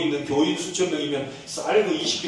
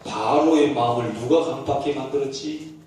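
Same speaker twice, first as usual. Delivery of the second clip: low calm question; 4 semitones lower than usual. Acted. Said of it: "최 목사님 보고 얘기합니다". (낮고 차분한 질문)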